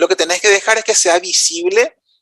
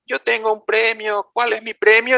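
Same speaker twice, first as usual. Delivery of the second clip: lightly voiced teacher asking, pitched higher; imitated colleague; 5 semitones higher than usual. Teacher asks organizer about her prize, lightly imitated in higher pitch. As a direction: quote her request in a raised pitch. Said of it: "cuando ella me dice".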